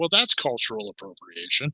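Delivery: dismissive, sneering, scornful scoff with swooping pitch. Voicing a woman in a cheering crowd: scoffing. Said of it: "scoff and say".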